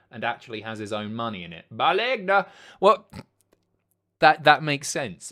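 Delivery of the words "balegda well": catchphrase cry. Pretend. Catchphrase cried out at news.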